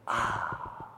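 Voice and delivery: slow, airy sigh of bliss sinking into cool water; elephant's blissful sigh in the cool pool. Retold or imitated. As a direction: breathe it out like pure relief. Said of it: "And it's like".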